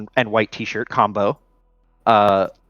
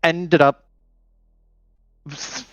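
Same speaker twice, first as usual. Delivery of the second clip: nervous Hijack; 5 semitones higher than usual. Acted. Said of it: "anxious and, like, excited somehow".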